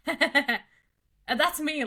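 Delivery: very slow, drawn-out words; lightly voiced drawl; slow mock line. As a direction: stretch it like a knowing TV host. Imitating Till Swan.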